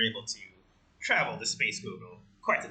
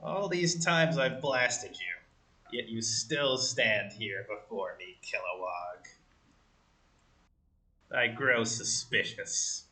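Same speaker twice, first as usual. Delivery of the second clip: menacing villain; 4 semitones lower, 4 dB quieter, slower than usual. Acted. Villain confronting his enemy.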